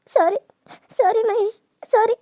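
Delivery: tearful apology. Acted. Girl crying sorry to Mahesh as she leaves him. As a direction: apologise while the tears come.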